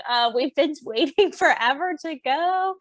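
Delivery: lightly voiced impatient husband; a hint of Andy, mock weary and eager to leave; quoting Andy. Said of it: "And Andy's like".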